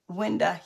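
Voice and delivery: Winda said with a dropped ending, uh for ow; Winda, the country way for window; regional pronunciation. Shown as a demonstration. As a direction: say Winda like a local grandma. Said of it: "yep, a winda".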